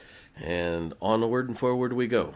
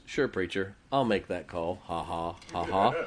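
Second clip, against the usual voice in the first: skeptical amusement; 3 semitones lower than usual. Retold or imitated. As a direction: humor the preacher, then chuckle at the idea. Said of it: "I could hear in Missus Barnes's voice".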